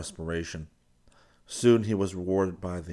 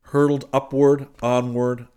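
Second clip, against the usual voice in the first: rising excitement; 6 semitones higher, 9 dB louder than usual. A narrator's reading. Climax of the launch scene.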